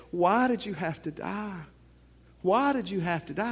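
lightly acted wail of grief; mock crying. Crying man pleading at a tombstone, mock grief. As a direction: mourn with a mild mock cry. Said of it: "He's crying".

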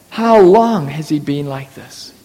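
low, soft, caring question; compassionate. Retold or imitated. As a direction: gently ask the suffering father. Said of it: "genuine compassion".

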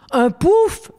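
s'étonner, voix qui monte; étonné. Acted. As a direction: question très haute, incrédule. Tonito surprised by the word. (surprise incrédule, très aiguë)

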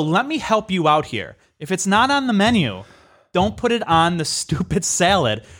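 retold exasperated correction; condescending telling-off. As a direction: spell it out with indignant mock helpfulness.

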